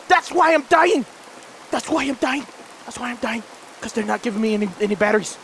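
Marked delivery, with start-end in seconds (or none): 0.1-3.4 real exasperated shout fading out. Real, not acted. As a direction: say it three times, letting it die away. Complaining about no batteries.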